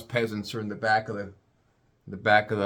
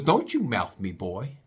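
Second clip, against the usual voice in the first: imitating snippy agent; 2 semitones lower, slower than usual. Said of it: "she goes".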